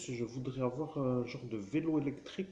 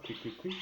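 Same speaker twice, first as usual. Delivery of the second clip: bird chirp; 4 semitones higher than usual. Retold or imitated. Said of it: "l'oiseau chantonne".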